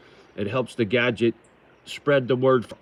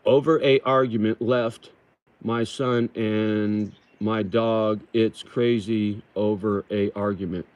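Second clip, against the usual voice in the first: slow careful reread; slower than usual. Shown as a demonstration. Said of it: "let me read this over again".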